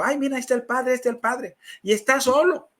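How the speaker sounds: lightly acted surprised onlooker; excited companion. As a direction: pitch it up as if pointing out a discovery. Companion spots the priest alone.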